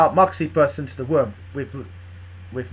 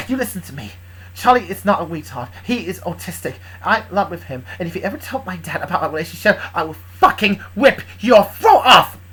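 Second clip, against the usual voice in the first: mild fury, building; 3 semitones higher, 3 dB louder than usual. Acted. Luna defending Charlie against Big, controlled fury building. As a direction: start measured, then lean hard on the threat. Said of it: "Luna looked furious and grabbed Bulk".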